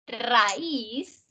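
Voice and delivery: "Raíz" drawn out in two syllables, weight on the I, rising; stress on closed vowel. Shown as a demonstration. Teacher showing an accented hiatus, "Raíz" with stressed I. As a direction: break "Raíz" after the A and lean on the I. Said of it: "la fuerza recae en la cerrada".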